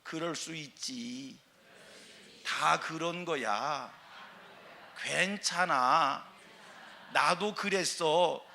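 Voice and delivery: slow, calm call-and-repeat; slow gentle repeat. Shown as a demonstration. Preacher leading the congregation in repeating kind words, slow. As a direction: say it slowly for the congregation to follow. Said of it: "따라합니다".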